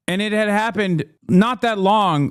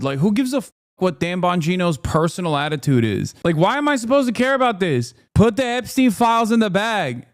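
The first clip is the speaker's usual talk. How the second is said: higher, exasperated ranting; fed-up rant at a podcaster cop; 4 semitones higher than usual. Real, not acted. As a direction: vent it, fed up and incredulous. Ranting at Bongino news.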